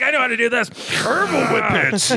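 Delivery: high-pitched comic enthusiasm; mock eagerness. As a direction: play the keen old hand. Acts out his joking eager reply.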